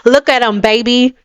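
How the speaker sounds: imitating a catty hater; mocking taunt. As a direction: jeer like a hater throwing shots. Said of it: "trying to throw shots like".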